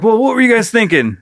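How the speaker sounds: high mock reprimand; chewing out. Chief to his detective unit, mock chewing out. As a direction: scold them like a movie chief. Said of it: "they get chewed out".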